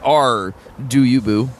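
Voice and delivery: a hint of a pirate growl on "R"; lightly voiced pirate, joking. Inventing the original pirate motto, mock pirate voice. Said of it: "original pirate motto".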